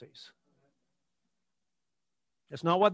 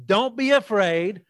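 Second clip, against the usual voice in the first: led recitation; slower than usual. Shown as a demonstration. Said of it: "Say that with me".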